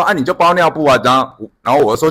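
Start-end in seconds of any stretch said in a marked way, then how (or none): 0.0-1.0 put-on child's answer. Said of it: "然后说".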